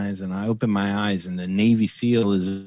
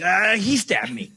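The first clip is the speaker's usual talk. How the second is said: high, meek mock admission; sheepish confession; 11 semitones higher than usual. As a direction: fold instantly, squeaky. Confessing to the cop.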